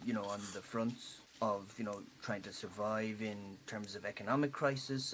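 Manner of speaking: soft reflective confession; Jeffrey muses softly about his old life; quiet reflective. Acted. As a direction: confide softly to a friend.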